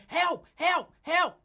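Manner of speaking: high, loud hammed-up help help help; mock screaming for help. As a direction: squeal it out like a panicked man. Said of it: "I can hear Lincoln screaming".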